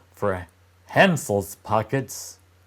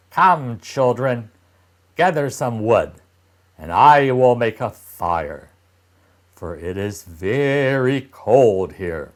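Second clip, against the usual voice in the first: louder, brisk orders; commanding stepmother; 4 dB louder than usual. Acted. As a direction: order the children to work. Stepmother in the forest.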